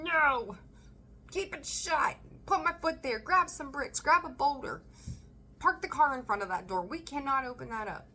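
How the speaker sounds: hammed-up panic, barricading the door; scared self refusing to open the heart's door; panicked pleading. Voicing the panicked inner self.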